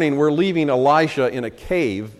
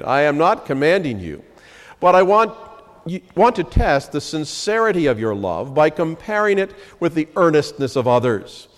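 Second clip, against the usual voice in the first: raised, measured reading of the passage; scripture reading. Acted. Pastor reads Paul's letter to the congregation, raised and measured. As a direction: proclaim the verses to the congregation.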